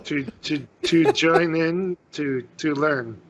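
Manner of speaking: slow, stumbling attempt at an Elvish accent; bad Elvish accent. Newcomer asking an elf instructor for lessons, halting bad Elvish accent. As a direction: labour over foreign words in a poor Elvish accent. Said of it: "with the worst accent, barely able to speak it correctly".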